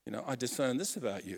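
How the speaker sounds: high, breathy-sounding gush of fake awe; mock gushing admirer. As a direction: gush over them like a flatterer. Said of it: "It's like".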